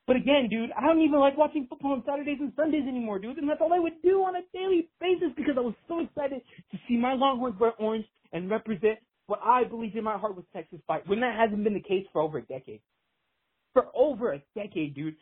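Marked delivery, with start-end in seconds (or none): 0.1-11.1 real upset, pitch climbing as it goes; getting emotional. Real, not acted. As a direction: plead as a let-down lifelong fan. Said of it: "I'm getting a little emotional now".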